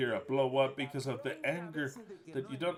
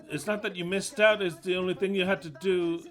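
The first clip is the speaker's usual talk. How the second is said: raised rebuttal; 4 semitones higher, 5 dB louder than usual. Real, not acted. Arguing with Rosa quote.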